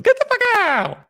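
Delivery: sudden high, loud shout; high-pitched, hammed-up dismissal; comic yell. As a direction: yell it as an abrupt outburst. Sudden comic yell after sign-off.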